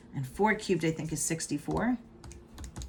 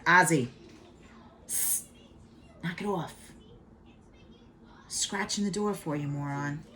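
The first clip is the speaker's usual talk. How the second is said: real scolding of cat. Real, not acted. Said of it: "I'm just yelling at my cat".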